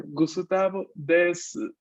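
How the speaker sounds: slow, careful "Gusutabo desu" with a faint u; dictation pronunciation. Shown as a demonstration. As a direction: dictate "Gusutabo desu" slowly, letting the u just sound. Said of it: "allí sí se va a escuchar esta U mínima". (pronunciación de dictado, lenta y marcada)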